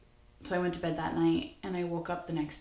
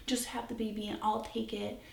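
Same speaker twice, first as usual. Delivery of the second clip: higher-pitched imitation of begging; mock desperate begging in a raised voice; retold pleading; 5 semitones higher than usual. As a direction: plead urgently, without real tears. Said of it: "was begging me and crying".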